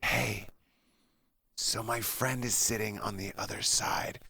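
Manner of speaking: soft, breathy whisper close to the ear; hushed mock whisper; retold whisper. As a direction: whisper it like a secret in his ear. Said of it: "she literally whispers in my ear very".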